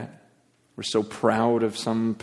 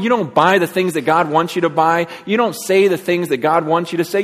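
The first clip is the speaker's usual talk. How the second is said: raised pitch, urgent pulpit delivery; forceful preaching; 5 semitones higher, 5 dB louder than usual. Real, not acted. Preacher confronts the congregation about their walk, urgent preaching. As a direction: press the warning home insistently.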